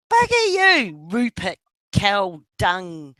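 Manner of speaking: mock yell. Yelling at his Aussie mate in the chat, mock-hostile. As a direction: drag out the insult like a playful taunt. Teasing friend who's listening in.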